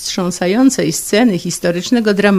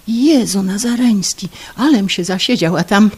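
startled exclamation; 4 semitones higher, 3 dB louder than usual. Acted. Startled at the clock.

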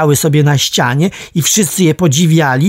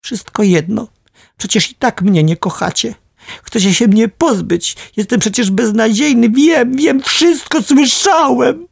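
put-on high, hurt child's cry, rising ever higher; a wounded boy yelling back at his mother; shouting; 8 semitones higher than usual. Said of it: "krzyczałem".

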